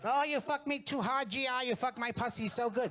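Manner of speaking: put-on very high-pitched caricatured Asian accent; mock Asian accent. Boyfriend demonstrates the role-play for his date, mock Asian accent. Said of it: "you know, do the accent".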